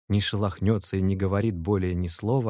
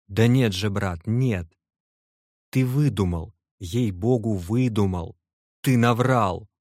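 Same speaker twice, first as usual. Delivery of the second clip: louder, half-laughing protest of disbelief; disbelieving shout; 2 semitones higher, 4 dB louder than usual. Acted. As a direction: cry out that it can't be true. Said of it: "закричал Аркадий Иванович и даже с неподдельным сомнением". (Аркаша недоверчиво кричит другу: ты выдумал)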